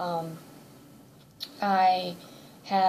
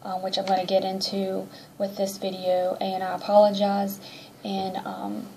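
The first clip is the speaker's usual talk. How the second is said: congested. Real, not acted. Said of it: "if I sound a little congested or nasally".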